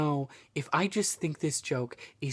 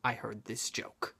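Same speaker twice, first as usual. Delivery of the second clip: whispered; 4 semitones lower, 8 dB quieter than usual. Real, not acted. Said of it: "I laughed so hard".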